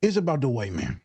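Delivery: comic put-on voice, sliding down in pitch; funny voice. Host summing up the show wrong, funny voice. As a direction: say it in a silly put-on voice. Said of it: "You just said it in a funny voice".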